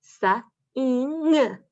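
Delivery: "Wa-ile" split into onset and rime; sounding out. Shown as a demonstration. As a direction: segment the word for the kids. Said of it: "we have ng endings".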